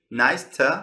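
"to" shrunk to a short "tə"; reduced "to". Shown as a demonstration. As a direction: say "to" as a weak "tə" after "Nice".

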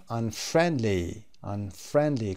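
"unfriendly" with FRIEND stressed, UN light. Shown as a demonstration. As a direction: keep the stress on the second syllable of "unfriendly".

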